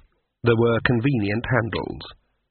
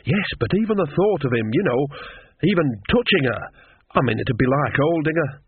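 higher-pitched, appalled gossip; lightly voiced Nanny, squeamish; 3 semitones higher than usual. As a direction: fumble for words, lightly in character.

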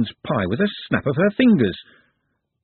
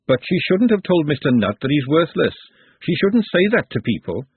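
higher, indignant cook; lightly voiced outspoken cook; forthright cook, protesting; 5 semitones higher than usual. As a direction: protest on someone's behalf. Glenda objects to the woman.

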